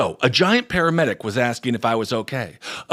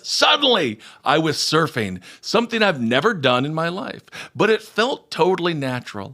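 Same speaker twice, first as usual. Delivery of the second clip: swept-up, higher-pitched reading aloud; dramatic story reading; 3 semitones higher than usual. Acted. Host reading out a listener's near-death story, dramatic. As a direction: tell a near-death vision with wonder.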